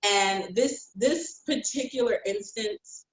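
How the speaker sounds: ordinary delivery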